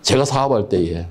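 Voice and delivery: ordinary talk, nothing marked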